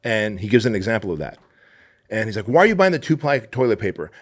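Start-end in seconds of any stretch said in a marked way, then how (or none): 2.5-4.1 louder, higher mock outrage; hammed-up husband's rant; retold yelling. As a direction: complain at the wife in mock anger. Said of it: "yells at his wife".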